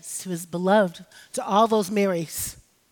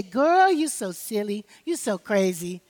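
mother teasing. Retold or imitated. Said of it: "And then she'd say".

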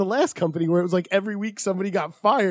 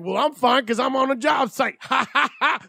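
smug coworker; 6 semitones higher than usual. Retold or imitated. Daly voiced smugly in story.

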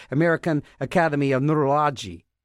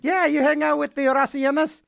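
neighbour asking; 8 semitones higher than usual. Pretend. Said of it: "the Italian family down the street".

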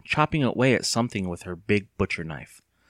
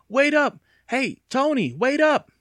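high, loud shout after someone running off; calling out; 5 dB louder, slower than usual. Acted. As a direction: yell for them to wait. Boy calling after runners.

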